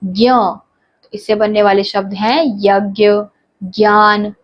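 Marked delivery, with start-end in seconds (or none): 0.0-0.3 slow spelling demo. Shown as a demonstration. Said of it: "ऐसे अगला है ज जमा य".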